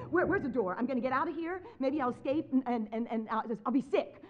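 loud, frantic escape plotting; acted-out flustered panic; retold panic. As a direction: stammer as if hunting for a way out.

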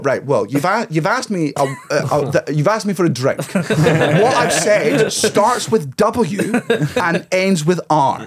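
high, laboured mock patience; sarcastic exasperation. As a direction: spell it out slowly for someone hopelessly slow. Acted exasperated exchange with waiter.

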